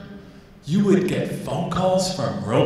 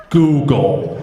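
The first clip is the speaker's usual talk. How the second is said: loud, lower, emphatic single word; mock offence; 4 semitones lower, 6 dB louder than usual. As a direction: say it firmly, as if mildly offended. Offended insistence, acted.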